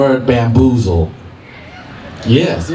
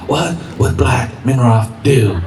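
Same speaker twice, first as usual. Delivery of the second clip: slow, drawn-out self-questioning; mock-solemn inner question; slower than usual. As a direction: ponder it slowly, word by word. Solemn inner question before a game.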